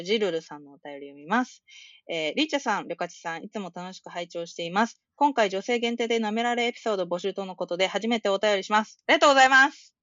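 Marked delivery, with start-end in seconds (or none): 2.1-9.0 steady, careful read-aloud of a listener letter. Acted. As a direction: read the fan mail out neatly. (リスナーのお便りを丁寧に読み上げる)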